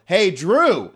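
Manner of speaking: just call out plainly; normal wake-up call. Shown as a demonstration.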